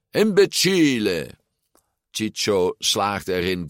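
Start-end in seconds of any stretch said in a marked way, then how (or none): 0.1-1.3 high-pitched, exasperated cry; roared insult. A narrator's reading. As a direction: roar it as an insult. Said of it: "terwijl Ciccio brulde".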